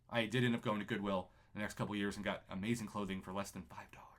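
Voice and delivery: breathy unvoiced whisper, as a side note; hushed confession; whispered aside. Real, not acted. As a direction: let it slip out in a whisper. Quiet aside about thrift shopping.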